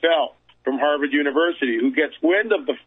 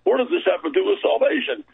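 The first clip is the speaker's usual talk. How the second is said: higher-pitched mock-disbelieving objection; lightly voiced doubters; 5 semitones higher than usual. Speaker imitating people who question what this has to do with salvation, lightly incredulous. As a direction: put on a touch of a baffled listener. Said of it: "some people are going".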